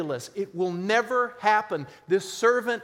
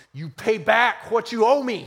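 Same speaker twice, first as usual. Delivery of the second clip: demanding; 3 semitones higher, 6 dB louder than usual. Acted. Preacher voices the unforgiving servant demanding payment, angry. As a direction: bark the demand like a creditor choking a debtor. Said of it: "he demanded".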